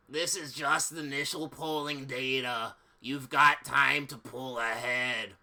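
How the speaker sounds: calm, unhurried assistant; lightly voiced secretary.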